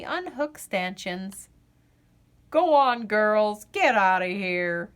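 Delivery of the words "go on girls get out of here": shooing call. Acted. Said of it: "says Dad".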